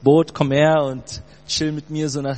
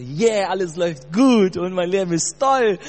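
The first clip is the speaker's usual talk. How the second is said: fake cheerful; 5 semitones higher than usual. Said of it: "gefakten Smile aufgesetzt und sagte".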